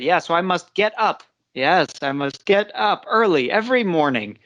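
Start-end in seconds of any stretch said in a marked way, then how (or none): 0.3-1.2 "get UP", up as the strong word; stress on UP. Shown as a demonstration. Teacher echoing a student's example, stress on UP. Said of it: "very clear the way you did it". 2.0-4.4 "get UP early", weight on up; stress on UP. Shown as a demonstration. Teacher confirming a student's example sentence, stress on UP. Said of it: "very clear the way you did it".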